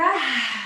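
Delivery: short voiced sigh out; breathy sigh. Real, not acted. Teacher catching breath mid-pose, sighing. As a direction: let a tired breath go. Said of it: "you can hear I'm quite out of breath".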